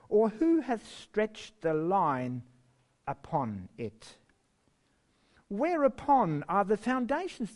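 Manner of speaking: slow, solemn reading of scripture; measured pulpit reading with long pauses. Acted. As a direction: intone it like the voice of God, slowly.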